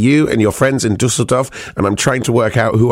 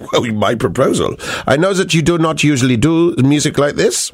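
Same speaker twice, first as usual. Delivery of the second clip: put-on German accent, a new take on the phrase; 2 semitones higher than usual. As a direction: reread it lightly in a German accent. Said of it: "I'm allowed to do the German accent".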